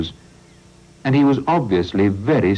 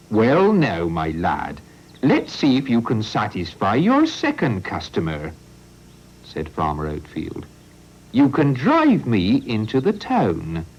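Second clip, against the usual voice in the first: a stubborn farmer refusing to let cars cross his land; Farmer Oatfield. Acted.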